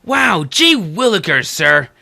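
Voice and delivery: slow, lightly voiced gee-whiz kid; wholesome 1950s kid. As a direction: lightly play a fifties goody-goody. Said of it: "You might as well say something like".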